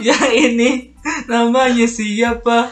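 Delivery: high, sweet voice, slow; cute voice. Acted. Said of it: "Di balik suara-suara imut ini".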